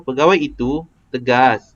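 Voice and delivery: "tegas" lifted at the end of the statement; statement tune peaking on "tegas". Shown as a demonstration. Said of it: "kita tinggikan tegas".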